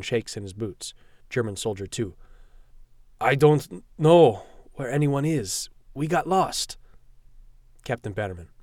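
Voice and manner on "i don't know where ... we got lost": slow, high, terrified plea. Acted. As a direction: beg for your life. Terrified prisoner at gunpoint.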